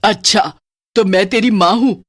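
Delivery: sarcastic witch. Acted.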